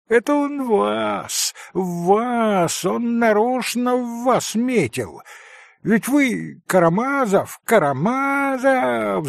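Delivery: high, lightly voiced boys taunting; mock the name like laughing kids; jeering boys. A narrator's reading. Boys taunt Alyosha by name, lightly voiced high jeer. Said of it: "закричали хохоча мальчики".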